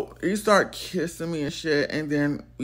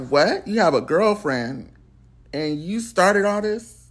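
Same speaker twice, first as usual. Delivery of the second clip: mock disbelief with raised pitch; incredulous; 3 semitones higher, 3 dB louder than usual. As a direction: retell it as a stunned challenge. Retold reaction to girlfriend confession.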